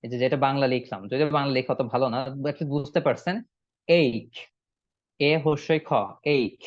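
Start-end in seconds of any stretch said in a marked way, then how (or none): 3.9-4.3 "এইক" as one syllable, eik; correct pronunciation. Shown as a demonstration. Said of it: "এইটার উচ্চারণ হচ্ছে". 6.3-6.6 "এইক" as one syllable, eik; correct pronunciation. Shown as a demonstration. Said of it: "এটার উচ্চারণ হচ্ছে".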